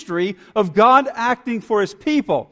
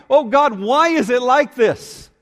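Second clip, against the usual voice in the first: crying out; 3 semitones higher than usual. Acted. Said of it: "It's crying out".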